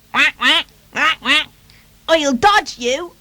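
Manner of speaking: high, cheeky quacking voice; high-pitched teasing baby duck; cheeping duckling. Acted. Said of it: "cheeped the duckling".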